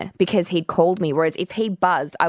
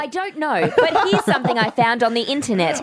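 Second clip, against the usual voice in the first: voice assistant imitation; 4 semitones higher than usual. Imitating assistant reply, laughing.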